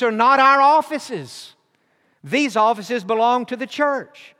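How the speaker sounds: building to a loud, high, slow emphasis; a retold father pressing his point, rising to a loud peak; earnest emphatic father.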